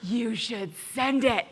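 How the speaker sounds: lightly voiced, slow flattering inner voice with a laugh. The tempting inner voice urging Sarah to send, amused. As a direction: coax her to send it, amused. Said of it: "This voice".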